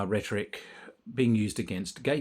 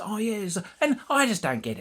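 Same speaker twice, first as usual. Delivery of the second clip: put-on West Australian accent; 11 semitones higher, 3 dB louder than usual. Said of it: "she's got the West Australian accent".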